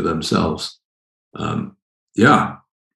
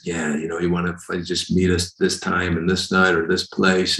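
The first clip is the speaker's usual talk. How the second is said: all cool; 2 semitones lower, 4 dB quieter than usual. Acted. Preacher mimics a flyer-handing secret society member, all cool. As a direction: play it cool and offhand. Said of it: "you're just all cool about this".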